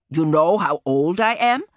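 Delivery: put-on a gruff old man asking. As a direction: ask like an old hunter. Old man talks to his pony.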